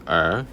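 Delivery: 儿 said with a rising tone; second tone. Shown as a demonstration. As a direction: lift the pitch through 儿. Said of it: "Second tone".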